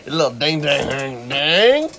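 slow, laughing echo of the silly phrase; laughing repeat. Real, not acted. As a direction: drag it out through a laugh.

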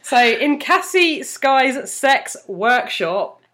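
slow, deliberate word-of-the-week presentation; mock educational announcement. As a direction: spell it out like a solemn lesson.

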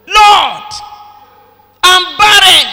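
a desperate plea that fades into a hush; fervent model prayer. Shown as a demonstration. Preacher voicing the congregation's prayer, crying out in plea. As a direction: cry out to the Lord, pleading. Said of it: "the first line of prayer".

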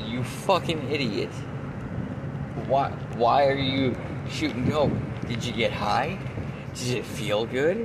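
slow, incredulous telling-off; retold scolding. Uncle scolds nephew for shooting dope, slow retold scolding. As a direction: draw out each accusing question.

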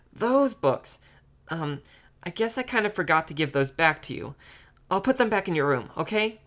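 put-on high-pitched girl caught out; sheepish little sister. A narrator's reading. Little sister admits keeping brother's books, sheepish. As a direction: backtrack sheepishly in a child's high voice.

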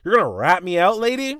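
can't believe she's actually doing it; disbelief. Retold or imitated. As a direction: kid stunned that his teacher will call his mom. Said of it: "And I'm like".

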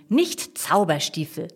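"nicht Zauberstiefel" drawn out pointedly; slow down on "nicht Zauberstiefel" to correct someone; deliberate, corrective "nicht Zauberstiefel"; emphatic correction. A narrator's reading. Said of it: "betont Jasmin".

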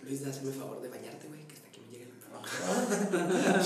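joking complaint. Acted. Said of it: "joke aside to friend".

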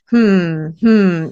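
loud, mock-pondering "Hmm, hmm"; detective musing. Student playing detective in an exam, loud mock musing. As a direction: ham up a sleuth thinking hard. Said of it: "acting like he was a detective".

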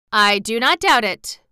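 proud. A narrator's reading. Sawhorse answers the cab horse, proud. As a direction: answer with self-important pride. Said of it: "with a tone of pride".

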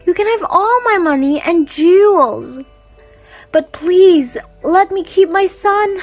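high, insistent begging; pleading. Acted. Queen begs to keep her son, pleading. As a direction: beg with rising urgency. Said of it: "pleaded the queen".

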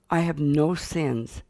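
slow, proudly measured claim; proud declaration. Retold or imitated. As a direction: state it with a child's mild pride.

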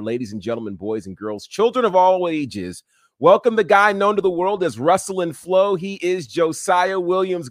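booming ringmaster announcement. Acted. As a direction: announce him like a circus ringmaster. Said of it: "that was fantastic".

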